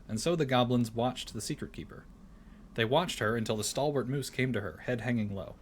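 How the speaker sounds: storybook reading voice; story narration. Acted. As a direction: read it like a bedtime tale.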